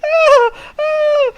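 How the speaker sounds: very high, loud panicked yelps; old lady swarmed by sparrows; frightened cries. Acted. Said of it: "and she's like".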